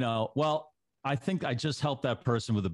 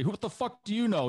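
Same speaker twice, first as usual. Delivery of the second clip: mock angry commenter; 9 semitones higher than usual. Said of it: "someone else will say".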